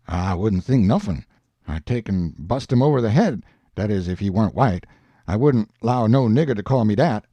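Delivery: lightly voiced Jim, low and indignant; a touch of stubborn offence, pitched low; Jim, offended. Jim bristling at the French phrase, lightly voiced and low.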